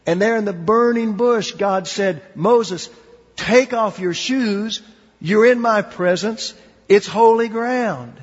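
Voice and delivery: God calling out to Moses from the bush, booming; rising preaching. Acted. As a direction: build to a booming command. Building to voice of God.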